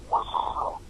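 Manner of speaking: breathless whispered awe; hushed amazed whisper; whispered wow. Retold or imitated. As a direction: whisper it, stunned. Stunned reaction retold.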